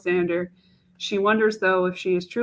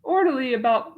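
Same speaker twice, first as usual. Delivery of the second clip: Mache; 5 semitones higher than usual. Acted. Young woman doubting a marriage proposal to herself, in an anguished voice.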